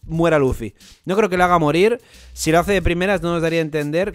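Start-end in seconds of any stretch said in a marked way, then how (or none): 1.0-4.1 insistent. Real, not acted. Insisting the character won't die.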